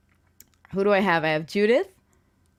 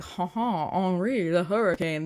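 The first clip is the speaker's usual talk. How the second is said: put-on French accent; slower than usual. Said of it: "being very like".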